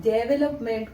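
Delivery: डेवलपमेंट said wrongly as "dub-lup-ment"; mispronounced development. Shown as a demonstration. Teacher warning students of a misreading, डेवलपमेंट mispronounced with "duh" first. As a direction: flatten the first vowel of डेवलपमेंट to a schwa, "duv-lup-ment". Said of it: "तो आपका गड़बड़ हो जाएगा".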